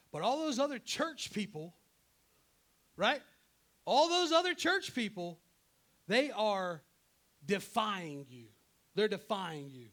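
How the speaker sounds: loud, high outburst easing as it ends; indignant accusation. Acted. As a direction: accuse the others loudly, in mock outrage. Acted Elijah accusing others to God.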